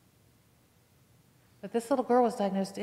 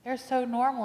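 tearful; slower than usual. Retold or imitated. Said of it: "She started crying".

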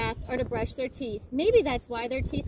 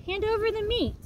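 high, loud roar for meat; crew roar; 8 semitones higher, 4 dB louder than usual. Acted. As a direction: roar it like hungry pirates. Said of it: "we all roared".

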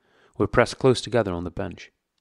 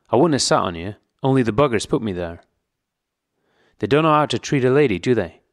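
put-on coarse old woman; 3 semitones higher, 5 dB louder than usual. A narrator's reading. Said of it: "drunk old prisoner woman speaks".

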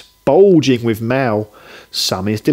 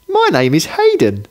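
put-on little boy crying out; 4 semitones higher than usual. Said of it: "the little lad cries".

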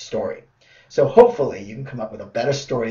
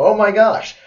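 startled oh my gosh; 8 semitones higher, 6 dB louder than usual. Retold or imitated. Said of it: "and you go".

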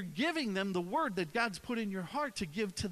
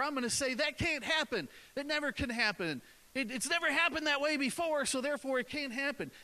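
a lightly voiced scoffing relative, pitched higher; mock doubting family; 6 semitones higher than usual. Preacher voices the family that doubts your victory, lightly mocking. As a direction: imitate the naysaying family.

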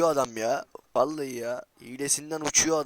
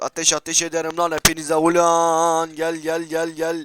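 loud threat; 4 semitones higher, 8 dB louder than usual. Real, not acted. Threatening all the players.

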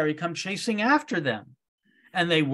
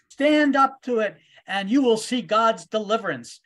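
Moses rallying; 4 semitones higher, 5 dB louder than usual. Retold or imitated. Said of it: "Moses turns to them and says".

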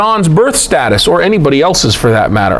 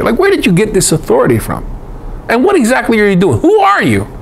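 quick, higher-pitched mock interrogation; challenging questioning; 5 semitones higher, faster than usual. Inquirers demanding John's authority, challenging. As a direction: fire questions, jumping high on the last one.

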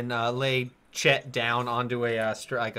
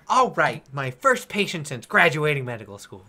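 put-on young gnome doctor; 4 dB louder than usual. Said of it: "He's like".

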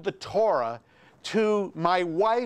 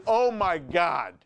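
retold panic. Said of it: "and I'm thinking".

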